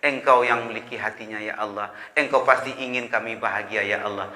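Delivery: soft, humble plea to God; hushed prayer. Retold or imitated. Mother quietly praying for her daughter, soft and humble. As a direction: pray it quietly, head bowed. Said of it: "dia nyambung kepada Allah".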